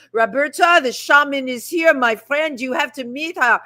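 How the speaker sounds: a light imitation of a French accent; lightly put-on French accent, asking. Filmmaker friend at a gallery asks, in a light French accent. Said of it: "in his French accent".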